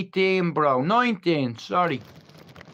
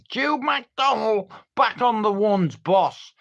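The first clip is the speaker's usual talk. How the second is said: high, slow call down the landing; pitched-up call across the prison wing; 4 semitones higher than usual. Retold or imitated. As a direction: sing out the name to the guard, drawn out. Calling out to a prison guard.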